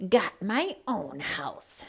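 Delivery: grumpy whispered grumble; grumpily. Acted. Sleepy snake turns down Patrick's box, grumpy whisper. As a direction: grumble it under your breath. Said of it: "the snake said grumpily".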